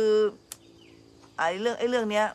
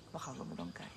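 much lower, very soft self-talk; muttering to herself; 11 semitones lower, 14 dB quieter than usual. Retold or imitated. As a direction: grumble it under your breath. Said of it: "บอกกับตัวเอง". (พึมพำกับตัวเองเบาๆ เสียงต่ำมาก)

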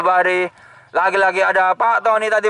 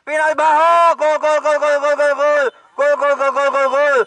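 excited goal shout; goal call; 4 semitones higher than usual. Real, not acted. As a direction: yell the goal out. Penalty goal celebration.

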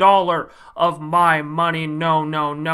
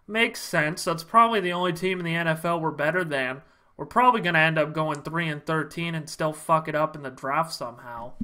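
softer, resigned grumble; deflated mutter; 2 semitones lower, 6 dB quieter, faster than usual. Acted. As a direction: sink back into gloom. Fan deflated again.

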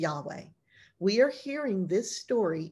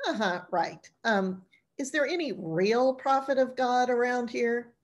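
skeptical; 3 semitones higher than usual. Acted. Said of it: "the skeptical look and the side eye".

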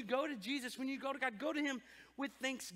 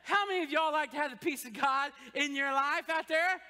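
louder repeat; 4 dB louder than usual. Real, not acted. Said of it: "Okay, good".

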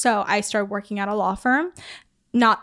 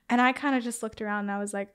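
ordinary talk

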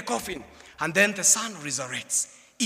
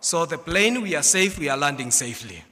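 pilot announcement; 2 semitones lower than usual. Acted. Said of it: "announcement comes in".

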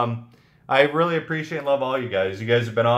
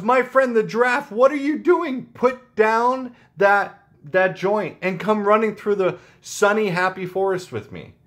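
higher, bright-eyed rabbit voice pleading with a stoned friend; the rabbit coaxes his friend the giraffe, raised voice; cheery rabbit; 5 semitones higher than usual. Acted. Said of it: "and the rabbit goes".

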